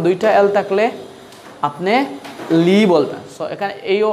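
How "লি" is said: লি loud and clear, "lee"; pronunciation model. Shown as a demonstration. Teacher repeating the double-L rule, loud "lee". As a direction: punch a long, louder লি. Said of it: "Again যে বললাম".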